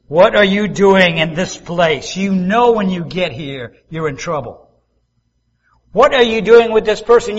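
put-on a scolding mother catching a kid in the act; mock-stern rebuke; the Holy Spirit scolding. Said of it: "that voice comes and says".

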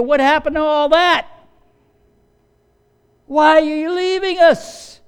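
high, loud, desperate protest; distraught disciples. Acted. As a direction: protest in alarm at being left behind. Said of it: "They don't know what to do".

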